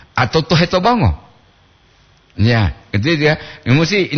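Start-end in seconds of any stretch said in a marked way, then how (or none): 0.4-1.2 "tohe to bongo" run together, falling at the end; no pause inside "tohe to bongo"; intonasi lain. Shown as a demonstration. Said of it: "intonasi harus jelas". ("tohe to bongo" disambung, turun di akhir)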